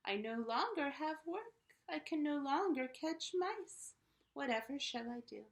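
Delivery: storybook cat voice, pleading and loud; lamenting cat. Acted. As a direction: wail it like a jobless cat. Cat laments losing its job.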